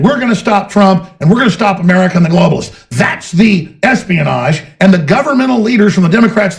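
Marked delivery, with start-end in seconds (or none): 0.0-2.9 lightly voiced quote, a touch raised; quoting the president. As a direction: read the quote with mild contempt.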